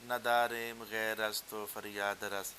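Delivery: Persian verse read in a Punjabi accent, words not stretched; Punjabi-accented recitation of a Persian line; Punjabi-style Persian. Shown as a demonstration. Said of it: "ایک Punjabi style کے اندر پڑھ کے بتاتا ہوں".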